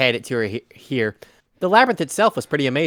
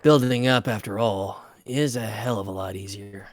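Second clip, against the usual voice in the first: noir detective; 2 semitones lower than usual. Acted. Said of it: "Noir detective narration".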